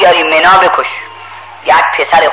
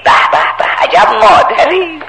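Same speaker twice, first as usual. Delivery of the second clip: amazed exclamation; 6 semitones higher than usual. Acted. Abraham marvels at the mother. (فریاد شگفتی، بلند و کشیده)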